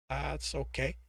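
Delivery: soft, subdued mumble; a cowed little mumble; mumbled. Acted. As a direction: mumble it, backing down. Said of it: "he mumbled".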